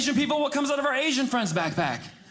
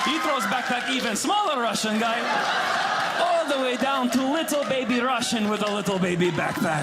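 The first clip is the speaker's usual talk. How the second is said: put-on Russian accent. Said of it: "There's the accent".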